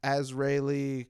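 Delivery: Azraeli said slowly, AZ-ray-lee; mock mispronunciation. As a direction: drag out Azraeli as a joke name.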